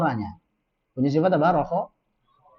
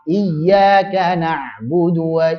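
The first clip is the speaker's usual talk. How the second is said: slow chanted tajwid recitation; teacher models Quranic chant; much slower than usual. Shown as a demonstration. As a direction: recite it slowly, melodic and drawn out.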